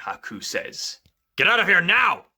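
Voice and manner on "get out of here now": loud urgent warning; urgent shout. Acted. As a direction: order her out urgently.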